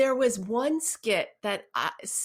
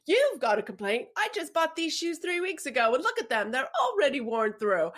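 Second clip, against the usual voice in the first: complaints manager; 5 semitones higher than usual. Acted. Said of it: "Then the complaints manager says".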